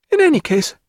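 high, tearful woman's voice; between sobs. A narrator's reading. Diana crying on his shoulder, tearful. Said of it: "she said between her sobs".

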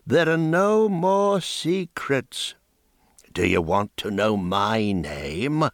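a hint of a crone sizing him up; wondering old woman. Old woman's dignified confession.

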